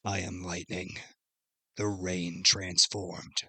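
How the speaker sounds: slow, soft robotic voice. Retold or imitated. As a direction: speak like a cyborg through neck speakers. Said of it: "So it sounds like a robot-y".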